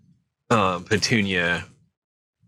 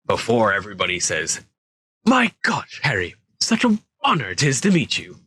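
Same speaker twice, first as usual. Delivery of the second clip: Hagrid voice; faster than usual. Acted. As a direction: play the worried gamekeeper, pitched up. Hagrid's lines read in character.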